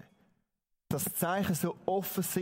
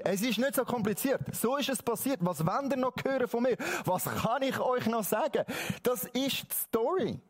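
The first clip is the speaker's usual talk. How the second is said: lightly acted exasperation, pitched higher; a touch of raised-pitch impatience; mildly exasperated; 4 semitones higher than usual. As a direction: play a man tired of repeating himself. Healed man questioned again, fed up.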